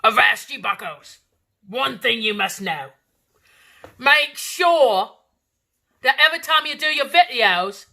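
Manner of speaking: put-on pirate accent lecture. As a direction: bark the advice like a captain. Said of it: "talk like a pirate".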